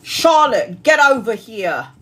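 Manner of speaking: loud call of a name, then slow; summoning call. Real, not acted. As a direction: summon her over, slowly. Summoning viewer Charlotte for reading.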